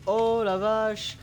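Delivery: very slow, high "oh la vache"; reenacted amazed reaction. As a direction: replay his own shocked reaction. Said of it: "Ma réaction".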